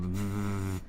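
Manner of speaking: V made with both lips pursed, blown like a buzz; bilabial v demo. Shown as a demonstration. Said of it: "you blow like you're making a buzz sound".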